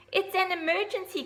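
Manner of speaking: high, loud urgent cry; shout. Acted. Little owl shouting to the horse, high and loud. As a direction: shout it like the sky is falling. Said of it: "cried Ozzy".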